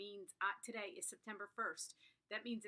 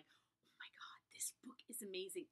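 whispered awe; 7 dB quieter than usual. Retold or imitated. Reader's reaction mid-book.

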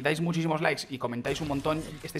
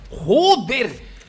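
loud, high outburst of amazement; high, punchy expletive; amazed exclamation; 6 semitones higher, 6 dB louder than usual. Real, not acted. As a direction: swear out loud in astonishment. Reacting to a shot in game.

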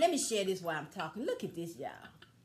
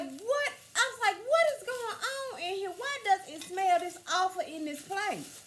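retold scream; 9 semitones higher than usual. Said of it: "I screamed at her".

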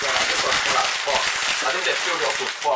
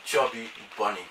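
cheeks stuffed full; 4 semitones lower, 3 dB quieter than usual. Real, not acted. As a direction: mouth crammed with marshmallows. More marshmallows added each turn.

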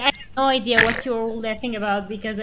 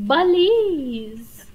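mimicking a scream; 4 semitones higher than usual. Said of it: "I love how Opal was like".

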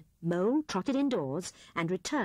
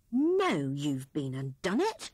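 grumbling; 4 semitones lower than usual. Acted. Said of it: "he grumbled".

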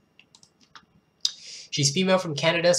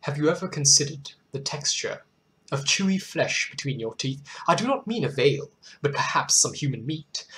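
dark poem reading. Acted. Host reads a disturbing cannibal poem to viewers, sinister poem reading. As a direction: savour each line of a dark poem.

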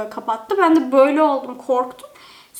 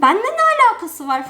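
annoyed retort; 6 semitones higher than usual. Retold or imitated. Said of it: "Ben de sinir oldum".

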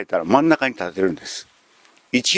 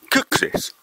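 whispered correction; faster than usual. Shown as a demonstration. 観客にそっと正しい発音を教える、ささやき声. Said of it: "料理人の正式な発音は".

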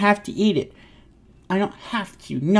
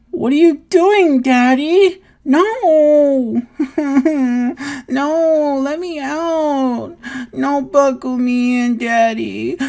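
put-on higher, half-laughing toddler protest; giggly protest; 4 semitones higher than usual. Toddler protesting being buckled into his chair, giggly. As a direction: squirm and giggle while refusing.

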